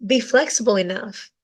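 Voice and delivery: ordinary talk, nothing marked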